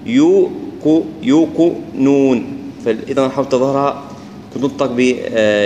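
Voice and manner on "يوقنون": يوقنون with a clean, slow و and no ياء colouring; يوقنون صحيحة بواو خالصة; correct يوقنون. Shown as a demonstration. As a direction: stretch يوقنون slowly and keep the و pure. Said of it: "هي يوقنون".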